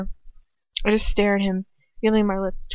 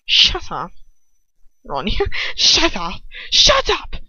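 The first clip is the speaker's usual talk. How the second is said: roaring yell; 5 dB louder, slower than usual. A narrator's reading. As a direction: roar with naked hatred. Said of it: "Ron yells, his voice a roar".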